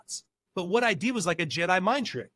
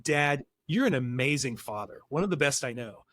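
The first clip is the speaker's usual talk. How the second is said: mock-sweet child flattering her dad; sweet polite request; 3 semitones lower than usual. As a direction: lay the flattery on lightly. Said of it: "if you walked in and said".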